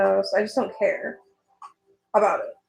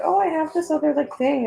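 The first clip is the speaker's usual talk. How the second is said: hesitant confessor; 7 semitones higher than usual. Retold or imitated. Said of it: "someone coming to you being like".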